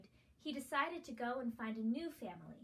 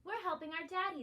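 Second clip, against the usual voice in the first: chirpy chicks; 6 semitones higher than usual. A narrator's reading. Woodpecker chicks talking.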